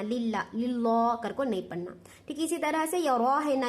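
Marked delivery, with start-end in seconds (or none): 0.0-1.1 लिल्ला with a light, thin lam. Shown as a demonstration. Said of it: "लाम को बारीक पढ़ना".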